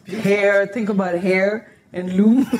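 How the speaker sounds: heirloom sounded out as "Hair" and "loom"; pronouncing heirloom. Shown as a demonstration. Cook showing how she says the word, sounded out. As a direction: split heirloom into hair plus loom, laughing. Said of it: "I never know how to pronounce it".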